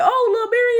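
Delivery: mock surprised greeting, high; high surprised bouncer. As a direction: pitch up high, delighted. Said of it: "he was like".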